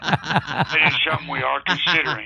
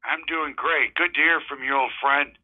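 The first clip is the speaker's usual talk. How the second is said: put-on folksy drawling old-timer; old prospector. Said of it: "Hi there, Joey".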